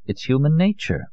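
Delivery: mild comfort; consoling. Acted. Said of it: "Allier consoled her".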